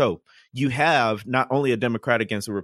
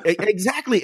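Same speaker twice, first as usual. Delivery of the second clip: exactly said through a laugh, higher; 9 semitones higher than usual. Real, not acted. Host agreeing with cohost's joke, laughing. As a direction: agree while still laughing.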